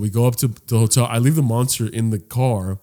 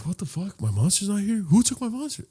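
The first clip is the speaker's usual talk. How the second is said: retold shock; 8 semitones higher, 6 dB quieter than usual. Retold shock at the missing drink.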